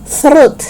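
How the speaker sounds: "throat" as "thrut"; TH first and T last, "thrut"; reversed sounds. Shown as a demonstration. Teacher showing truth turned backwards, "throat" as "thrut". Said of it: "it's not throat".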